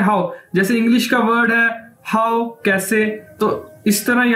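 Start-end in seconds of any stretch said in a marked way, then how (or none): 0.0-0.3 हाउ said like English how; Chinese word pronounced. Shown as a demonstration. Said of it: "इसको कैसे बोलना है आपने". (हाउ को अंग्रेज़ी how की तरह बोलें)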